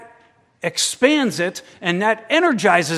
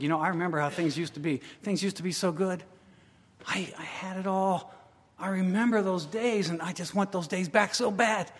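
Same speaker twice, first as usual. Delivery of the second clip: wistful psalmist; 7 dB quieter than usual. Acted. Voicing the nostalgic psalmist.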